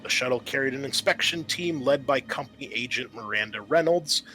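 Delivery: steady, measured scenario narration; game master scene setting. Acted. GM reading the intro to the players, measured narration. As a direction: set the scene for the players like a briefing.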